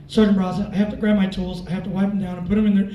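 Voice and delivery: lightly voiced low, loud airman; imitating an over-keen subordinate; eager airman. Acted eager airman answering supervisor.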